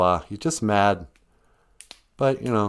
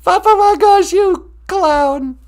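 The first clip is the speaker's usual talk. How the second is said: high, loud laughing tease; a listener laughing at Papa Wagosh's joke; 9 dB louder, much slower than usual. Real, not acted. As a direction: laugh and call him a clown.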